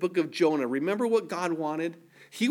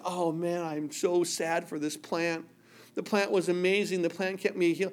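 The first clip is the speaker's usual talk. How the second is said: mock mourning; 3 dB quieter than usual. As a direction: whine over the dead plant. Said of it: "Jonah's now just".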